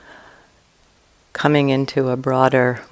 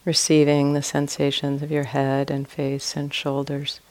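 guided meditation. Real, not acted. Teacher guiding listeners to relax and expand awareness, calm meditation voice. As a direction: ease listeners through it, leaving long silences between short phrases.

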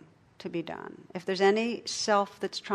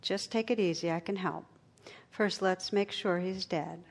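lightly voiced, gently calming a panicked caller; calm, soothing; 3 dB quieter than usual. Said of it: "in a calm, soothing voice".

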